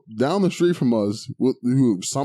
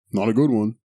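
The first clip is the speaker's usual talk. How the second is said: put-on light Southern accent; 2 semitones higher than usual. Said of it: "a Southern accent in an anime".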